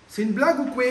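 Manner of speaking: repeated with a real edge of exasperation; exasperated disbelief. Real, not acted. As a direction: throw up your hands at the bad joke. Wrong part won't fit.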